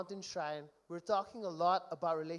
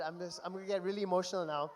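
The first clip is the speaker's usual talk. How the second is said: rushed aside; faster than usual. Real, not acted. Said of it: "the joke stop".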